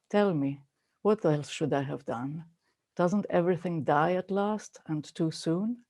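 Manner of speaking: soft, measured poetry recital; poem reading. Acted. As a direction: read it gently, letting each line settle. Reads Mary Oliver poem aloud.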